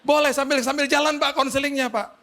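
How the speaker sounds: high, whimpering plea; imitated crying. Driver asks for counseling while driving, mock tearful. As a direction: beg through mock tears. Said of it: "sambil nangis".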